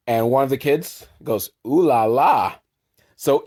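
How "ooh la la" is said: lightly put-on kid's ooh-la-la; teasing kid. Kid teasing Dolph about the teacher, playful. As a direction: tease in a sing-song.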